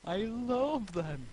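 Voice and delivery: sarcastic. Real, not acted. Sarcastic reply in reading.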